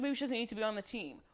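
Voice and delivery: whispered, fast cutting threat; mock Abby threat. Host retelling coach Abby's threat to a dancer, in a whisper. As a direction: hiss it like a petty coach. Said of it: "And Abby goes".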